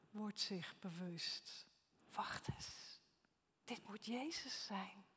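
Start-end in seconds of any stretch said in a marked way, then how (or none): 2.1-5.0 softly whispered dawning realization; awed whisper. Acted. Disciple realizes the man on shore is Jesus, whispered. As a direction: breathe it like a secret you just grasped.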